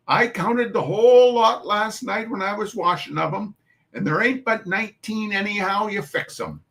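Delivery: put-on Irish-tinged New York mum calling the children to chores; New York Irish dialect. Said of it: "I do not know this dialect".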